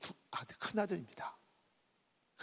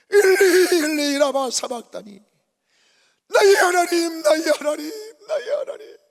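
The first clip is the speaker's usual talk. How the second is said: loud, much higher wailing cry to the Father; anguished crying out; 9 semitones higher, 11 dB louder than usual. Acted. Preacher voicing Jesus crying out on the cross, anguished loud wail. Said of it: "아버지를 부르면서 울부짖는".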